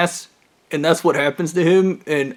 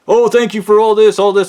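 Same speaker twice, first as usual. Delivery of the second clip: higher, louder gushing thanks; gushing director; 4 semitones higher, 5 dB louder than usual. Retold or imitated. Director calling to thank him effusively. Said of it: "he's like".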